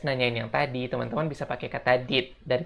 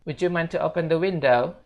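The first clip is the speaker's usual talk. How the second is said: higher, polite model request; model sentence; 4 semitones higher than usual. Shown as a demonstration. Teacher introduces the polite request. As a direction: ask it politely. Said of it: "kita lanjut".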